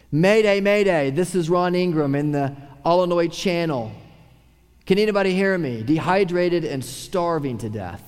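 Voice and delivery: mock distress call. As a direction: call out like a sailor lost at sea. Stranded sailor's radio distress call.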